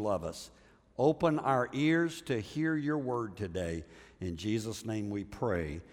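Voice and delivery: earnest, unhurried prayer voice. Real, not acted. Pastor praying over the congregation, earnest and unhurried.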